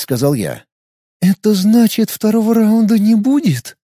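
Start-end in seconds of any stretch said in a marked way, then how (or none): 1.2-3.8 pouting. Acted. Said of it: "надула губки Иль".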